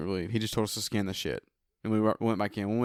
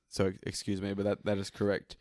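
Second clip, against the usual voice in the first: stiff robot voice correcting itself; robot voice, like a glitch; 3 semitones lower, 7 dB quieter than usual. Real, not acted. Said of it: "You sounded like a robot that made a mistake".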